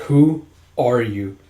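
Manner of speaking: slow, serious questioning. Retold or imitated. Sinha not recognizing Gija, slow and serious. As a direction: ask it gravely, word by word. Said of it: "and he goes all serious".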